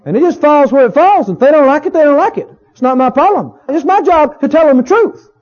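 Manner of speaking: a mildly smug, dismissive minister; mildly mocking a self-righteous preacher. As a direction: brush off the hurt, lightly mocking. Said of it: "ministers talk like this".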